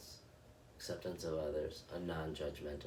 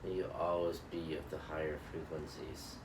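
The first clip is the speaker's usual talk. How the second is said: guided loving-kindness meditation. Acted. Meditation host blessing her viewers in a calm, measured recitation. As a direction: bless each listener gently, line by line.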